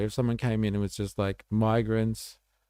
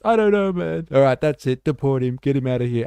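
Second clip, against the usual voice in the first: hammed-up shouting, much higher and louder; mock outrage; 5 semitones higher, 8 dB louder than usual. Host mock-deports a guest who failed the cricket quiz, in a loud hammed-up yell. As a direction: bark the order like a mock border guard.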